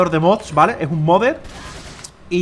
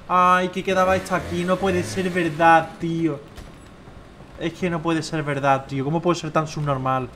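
dismayed lament; 3 dB quieter, slower than usual. Real, not acted. Laments his own game mistake.

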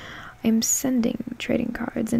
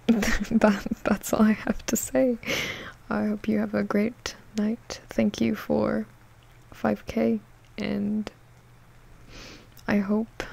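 gentle ASMR goodbye; whisper. Acted. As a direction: whisper goodnight close to the mic. Whispered sign-off.

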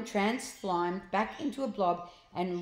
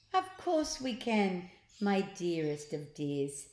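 sugary voice; slower than usual. Acted. Mrs Glutton's sugary voice.

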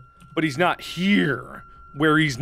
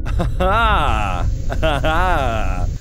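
triumphant laugh; 3 semitones lower, much slower than usual. Pretend. Triumph on reaching target.

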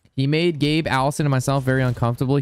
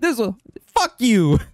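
retold angry retort; 9 semitones higher, 3 dB louder, slower than usual. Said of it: "And I was like".

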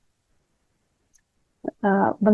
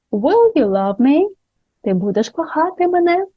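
pleading question; 7 semitones higher than usual. Pretend. Romantic example question.

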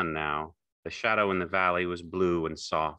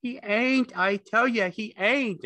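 very high, frantic denial; desperate cry; 5 dB louder, slower than usual. A narrator's reading. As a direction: cry it out to drown the taunts. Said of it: "And he cried".

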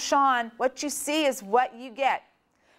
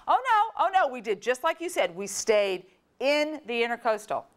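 mock innocent; 3 semitones higher than usual. Brother hiding the adventure, lightly innocent. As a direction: play it innocent. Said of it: "and I go".

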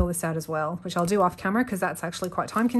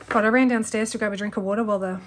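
out of breath; 2 semitones higher, 4 dB louder than usual. Real, not acted. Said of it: "I'm, like, all out of breath".

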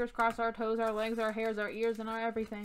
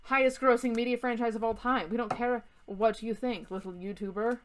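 mock British accent for a snooty company; weird British accent. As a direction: put on a lofty, slightly odd British voice. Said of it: "like, a weird British accent".

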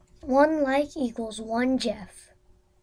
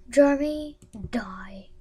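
hissed whisper; 4 dB louder than usual. Pretend. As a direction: whisper it menacingly. Whispered villain command.

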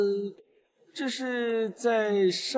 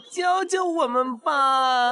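pleading shout; much slower than usual. Acted. Crowd begging the teacher.

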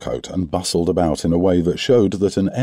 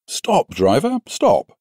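calling to driver; 8 semitones higher, slower than usual. A narrator's reading. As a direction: shout up to the driver, urgently.

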